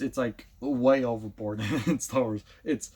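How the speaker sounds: lightly mocking overblown cartoon voice; overdone delivery demo. Shown as a demonstration. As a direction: exaggerate it like the show's actors. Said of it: "you're just constantly talking like this".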